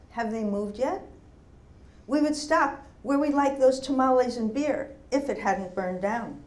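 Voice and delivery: rhythmic recital in measured phrases; lifted line openings, settling at phrase ends; poetry reading. Acted. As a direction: read it as a litany of memories. Reads second poem aloud to an audience.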